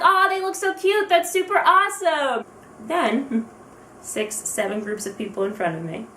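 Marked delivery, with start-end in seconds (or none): 0.0-2.4 high-pitched cooing admiration; gushing. Retold or imitated. Fan watching others get their pictures, gushing. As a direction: coo over it like an adoring onlooker.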